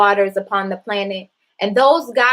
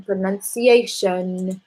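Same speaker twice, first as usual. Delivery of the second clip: drawn-out reading; much slower than usual. Real, not acted. Reading the web page aloud.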